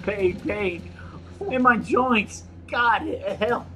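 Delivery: hammed-up dying words in Russian accent. Note writer in pain begging help, mock Russian accent. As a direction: gasp out fragments in mock Russian.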